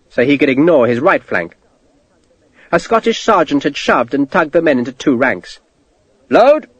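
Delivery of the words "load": sharp loud command; officer bellowing a command; barked order. A narrator's reading. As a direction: shout the order to load.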